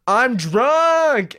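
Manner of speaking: hammed-up movie drunk; mock drunken yell. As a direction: imitate a drunk calling out down the street. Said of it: "and he yells".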